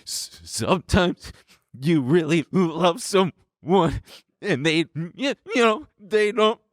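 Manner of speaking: put-on high, slow, childlike explaining; slow sing-song to children; dumbed-down explaining. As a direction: explain like to small kids. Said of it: "I did it through, like".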